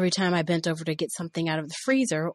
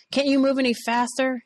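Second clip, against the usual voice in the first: higher, louder impatient yell; yelling boss; 7 semitones higher, 5 dB louder than usual. Retold or imitated. Boss yelling at the new cook, louder. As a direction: yell at her to hurry up. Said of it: "he would yell".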